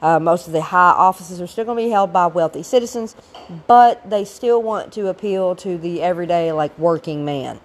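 rough, hoarse voice from a cold; raspy after being sick; gravelly voice. Real, not acted. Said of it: "please excuse the gravelly voice".

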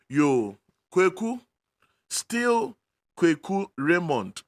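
loud call of a name. Real, not acted. Prophet calls out a name.

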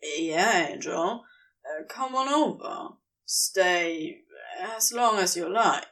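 low raspy reply; rasped. Acted. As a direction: rasp it out, low and rough. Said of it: "he rasped".

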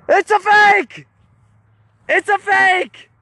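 high-pitched mock yell; shouted reveal. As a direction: blurt out the confession, high and drawn out. Retold big reveal, yelled out.

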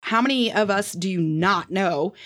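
mock her own exasperation at the uncle; exasperated retort. She scolds uncle who shares her last name, high incredulous. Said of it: "And I was like".

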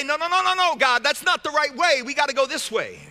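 urgent objection. Acted. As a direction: cut in with a rapid string of objections. Objecting to God's direction.

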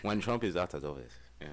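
put-on African accent, mock-earnest; lightly hammed-up African accent; playful African accent. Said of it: "when you're doing this to me".

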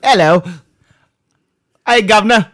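loud, high mock-Cockney greeting; bad British accent. Host greeting co-hosts in British episode, bad British accent. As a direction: hail them in hammed-up fake British. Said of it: "I can't do a British accent".

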